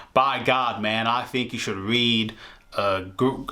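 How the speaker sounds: lightly put-on American fan accent; changed-up American accent. Fan recommending a book to a friend, in a put-on American accent. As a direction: switch to a different mock American accent. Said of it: "Let me, let me change it up".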